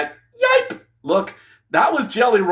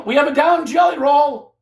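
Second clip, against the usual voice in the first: high, loud "we have a down Jelly Roll"; shouted commentator alarm, pitched up; 8 semitones higher, 3 dB louder than usual. Real, not acted. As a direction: yell it like a ringside emergency. Calling a wrestler down.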